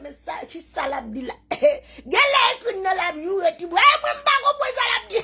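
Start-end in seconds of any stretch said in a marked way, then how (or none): 1.5-5.2 high, loud, breaking with laughter; laughing hard. Real, not acted. Laughing at the rivals to her viewers, high and loud. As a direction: squeal it through tears of laughter.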